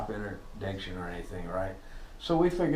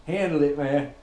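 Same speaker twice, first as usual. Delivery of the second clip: cocky loud boast; 5 semitones higher, 7 dB louder than usual. Retold or imitated. Joe reporting back proudly.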